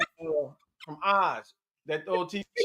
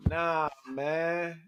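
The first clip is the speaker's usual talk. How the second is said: low, softer impression of an actor; Tay Diggs; 4 semitones lower, 7 dB quieter than usual. Comic quoting the actor's line, low imitation voice. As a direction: imitate his catchphrase in a deep, easy voice. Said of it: "He be like".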